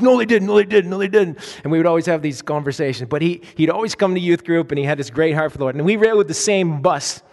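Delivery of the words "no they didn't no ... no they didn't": indignant protest. Retold or imitated.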